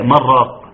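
"من راق" run together as "مراق"; no pause and no chant on "من راق"; wrong merged reading. Shown as a demonstration. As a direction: slide "من" straight into "راق" without stopping. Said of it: "يعني ما يقولش إيه".

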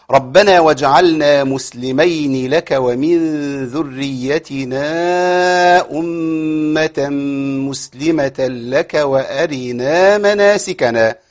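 slow, drawn-out chanted recitation; Quran recitation. Acted. Teacher reciting the verse before explaining stops. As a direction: recite the verse with measured tajweed.

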